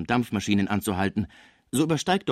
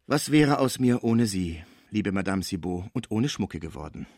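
put-on old Pons, moved. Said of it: "sagte er".

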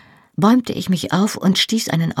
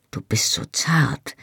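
tender whisper; 3 dB quieter than usual. Acted. Tender lover fears hurting her.

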